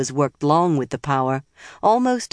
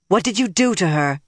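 a raised, higher demand; a raised, demanding question to her captors; 4 semitones higher than usual. A narrator's reading. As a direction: insist on an answer, pushing up in pitch. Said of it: "Nynaeve demanded".

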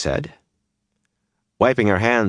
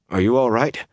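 higher-pitched worried question; anxious; 7 semitones higher than usual. A narrator's reading. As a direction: ask with mild anxious concern. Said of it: "he said anxiously".

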